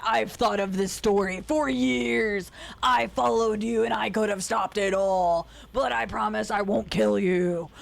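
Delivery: slow, self-important droning mock voice; imitating Ulysses' voice. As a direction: parody a brooding narrator, slowly. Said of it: "Basically, that's how it sounds".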